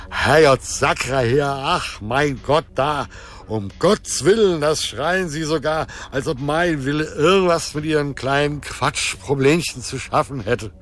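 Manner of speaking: high-pitched, blustering mock lament; exasperated rant. A narrator's reading. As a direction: wail at their petty little problems. Drunken god rants about petty problems. (hoch gejammerte, empörte Tirade)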